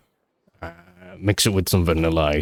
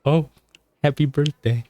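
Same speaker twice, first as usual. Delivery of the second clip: mock waiter voice; 6 semitones higher than usual. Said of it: "in that voice where you're like".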